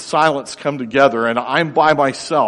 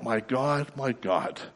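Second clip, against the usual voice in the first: retold calling out; 10 dB quieter, slower than usual. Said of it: "now he's calling out".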